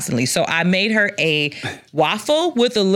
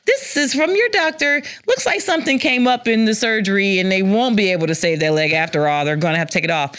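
fake innocent concern. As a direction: sell the lie sweetly to mom. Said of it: "So I was like".

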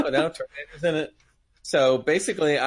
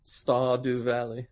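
put-on slow, drawn-out English accent; an American trying an English accent, slowly; much slower than usual. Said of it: "He's doing an English accent".

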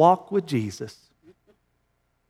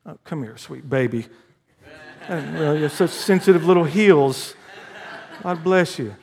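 mock coddling; 2 semitones lower than usual. Mock comforting of a grown man.

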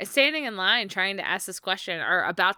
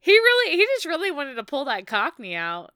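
amused; 7 semitones higher, 5 dB louder, faster than usual. Real, not acted. Laughing amused retelling.

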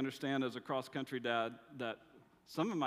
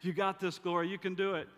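cheering her on; 4 semitones higher, 4 dB louder than usual. Retold or imitated. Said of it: "go cheer her on".

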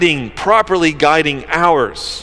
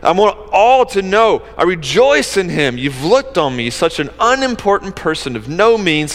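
joyful paraphrase; 3 semitones higher than usual. Retold or imitated. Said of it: "she's like".

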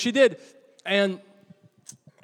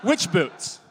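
laughing; 3 semitones higher, 4 dB louder than usual. Real, not acted.

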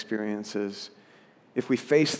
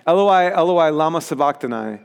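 mildly raised cry, easing off on the second half; 4 dB louder than usual. Acted. Preacher reading Jesus' cry from the cross, crying out. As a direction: read it as a restrained loud cry. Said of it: "cried out in a loud voice".

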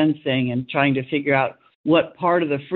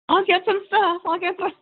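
tag. Retold or imitated. Mimicking eager production voice.

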